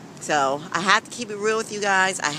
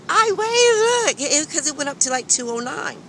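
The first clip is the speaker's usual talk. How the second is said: panicked high yell; 9 semitones higher than usual. Retold or imitated. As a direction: shout it out in a panic. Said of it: "I'm like".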